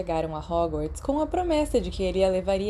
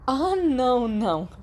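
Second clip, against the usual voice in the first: stern; 5 semitones higher than usual. A narrator's reading. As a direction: order him to come with her. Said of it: "Lily disse severamente". (Lily, séria e firme, chamando Potter)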